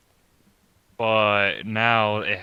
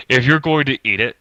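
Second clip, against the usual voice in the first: put-on pompous British accent, reading aloud; faster than usual. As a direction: read it like a pompous British narrator. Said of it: "read it in a pompous British voice".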